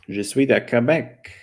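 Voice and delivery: a slow Quebec French accent. Shown as a demonstration. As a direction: say it like a Quebecer, a bit slowly. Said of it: "I like the Quebec accent in terms of French".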